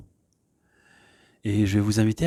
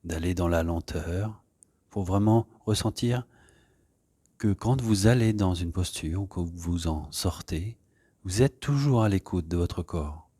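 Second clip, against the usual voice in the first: calm, soft guiding voice with long pauses; unhurried yoga-class settling-in voice; guided meditation; 4 dB quieter than usual. Real, not acted. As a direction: ease them gently into stillness. Leads an opening meditation.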